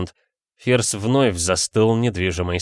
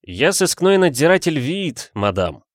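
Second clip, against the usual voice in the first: shouted; 7 semitones higher, 3 dB louder than usual. Acted. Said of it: "прокричал сыщик".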